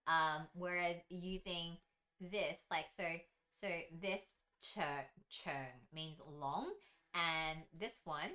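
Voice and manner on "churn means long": "churn" with a sharp ch at the start; ch sound. Shown as a demonstration. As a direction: say "churn" with a clear ch. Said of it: "C is like a ch sound".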